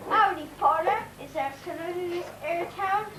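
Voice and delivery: put-on Wild West cowboy greeting; mock cowboy accent. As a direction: attempt a cowboy accent, confidently off the mark. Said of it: "I know the accent".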